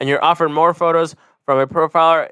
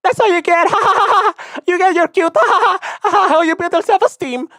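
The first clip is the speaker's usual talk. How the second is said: put-on very high, loud cackling girl; mocking girl voice laughing in falsetto; 4 dB louder than usual. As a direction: laugh him off in a high squeal.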